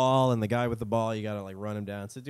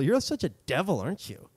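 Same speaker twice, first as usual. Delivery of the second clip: higher teasing pet talk, dropping off at the end; tone misfire; 3 semitones higher than usual. Retold or imitated. Talking to the little imp, tone accidentally off. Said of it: "I didn't mean to say it like that".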